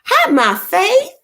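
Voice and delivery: high, loud and slow hi; excited greeting. Real, not acted. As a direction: stretch the greeting out warmly.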